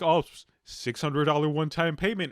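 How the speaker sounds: self-congratulating mock boast; smug, pleased with yourself; smug politician. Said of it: "they're gonna be like".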